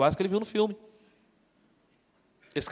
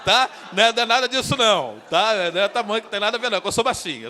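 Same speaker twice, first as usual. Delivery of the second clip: flustered laughing protest; 5 semitones higher, 7 dB louder than usual. Real, not acted. Pastor laughingly defends himself.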